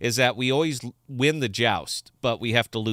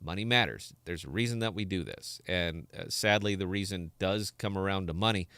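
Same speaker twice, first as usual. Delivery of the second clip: quiet, sober sincerity; dead serious; 2 semitones lower, 5 dB quieter than usual. Real, not acted. Host assuring viewers that money matters, quietly serious. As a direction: speak softly and earnestly, really meaning it. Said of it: "I'm one hundred percent serious about this".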